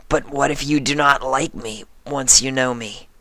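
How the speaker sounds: creature trying another disguise; lightly voiced changeling. A narrator's reading. Changeling worries.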